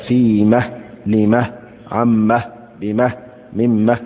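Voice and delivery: slow, careful haa at each pause; pausal haa demo. Shown as a demonstration. Teacher to students, showing the pausal haa slowly. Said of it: "بإلحاق هاء السكت هكذا".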